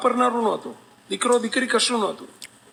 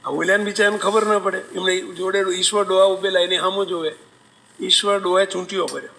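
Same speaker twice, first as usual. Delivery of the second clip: ordinary talk, nothing marked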